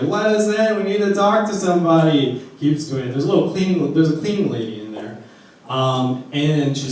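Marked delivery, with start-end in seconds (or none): 0.0-2.4 high, pleading shout at locked doors; frantic yell. Retold or imitated. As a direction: bang and holler to be let in. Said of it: "He starts banging on the doors like".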